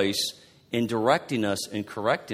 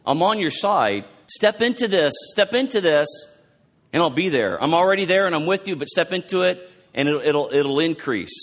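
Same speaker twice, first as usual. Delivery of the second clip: encouraging; 3 semitones higher than usual. Retold or imitated. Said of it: "He's, like, saying it like".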